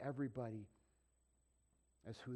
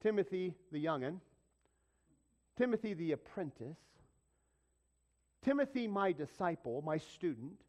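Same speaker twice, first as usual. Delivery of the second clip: preaching at full force; 4 semitones higher, 5 dB louder than usual. Real, not acted. Preacher builds a roll of names.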